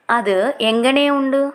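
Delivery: slow, clear teacher repeat of అది ఎంగనే ఉండు; drawn out for learners to copy; slow model repeat. Shown as a demonstration. (నెమ్మదిగా, స్పష్టంగా మళ్ళీ చెప్పడం)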